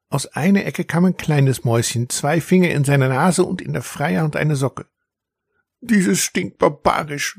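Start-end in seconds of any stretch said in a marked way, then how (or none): 5.8-7.4 high, slow mouse voice; a high little mouse pinching its nose. A narrator's reading. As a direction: squeak it out like a tiny disgusted mouse. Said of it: "flüsterte es".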